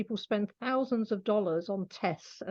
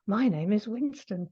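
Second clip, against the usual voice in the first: put-on young-sounding pet voice. Animal communicator relaying a pet's clear voice, lightly voiced young animal. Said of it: "to give you an idea of what it sounds like".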